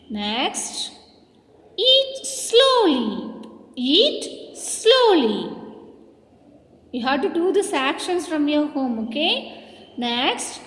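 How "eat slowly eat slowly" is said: very slow, drawn-out prompt; slow teacher's call with a swooping fall; called-out action command. Shown as a demonstration. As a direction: stretch each word out for the class.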